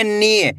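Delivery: नी with a long, held ee; drawn-out vowel. Shown as a demonstration. Teacher shows how the long-ee sign is read, नी drawn out. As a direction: stretch the ee in नी. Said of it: "बड़ी ई की मात्रा को खींच के पढ़ा जाता है".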